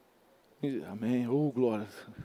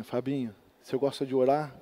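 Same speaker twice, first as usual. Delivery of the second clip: softer, lower voice of the gentle pastor; gentle old pastor; 6 semitones lower, 6 dB quieter than usual. Retold or imitated. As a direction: ask tenderly, barely above a murmur. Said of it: "Aquela voz mansa dele". (voz mansa e baixinha do velho pastor)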